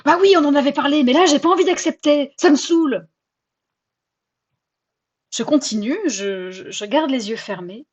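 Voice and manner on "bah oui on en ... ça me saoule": louder, sulky and fed up; irritated comeback. Acted. Answering her mocking inner voice, irritated and sulky. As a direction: snap back like a grumpy kid.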